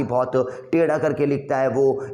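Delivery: ordinary talk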